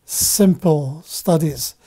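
"simple" set apart with a deliberate beat; stress on simple. Real, not acted. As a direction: underline the word "simple" as you say it. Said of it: "I'm emphasizing the word simple".

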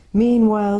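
a nervous little faun probing gently; faun character voice. A narrator's reading. The faun politely quizzes the girl in a fussy, nervous voice.

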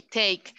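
"take" with an eh-to-ee glide; correct pronunciation. Shown as a demonstration. Teacher confirming the sound for students, "take" clearly modelled with E-I. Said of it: "E, I".

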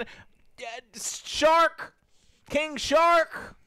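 loud, slow furious rant; shaking with anger. Pretend. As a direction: rage at him, words dragged out. Mock rant at early-access streamer.

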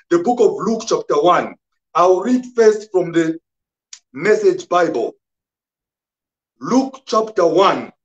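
emphatic sermon voice; preaching. Real, not acted. Preaches on the scripture.

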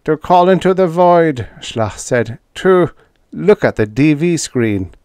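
alien Schla. A narrator's reading. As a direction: play the alien in disbelief. Alien Schla voiced high.

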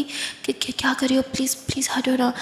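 flustered little sister pleading in a hush; nervous stammer. Acted. Kiran nervously begs her sister to move, whispering. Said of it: "कहती".

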